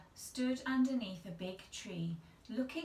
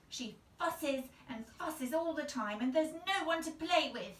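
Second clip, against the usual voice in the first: crossly; 7 semitones higher, 4 dB louder than usual. A narrator's reading. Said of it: "Sally said crossly".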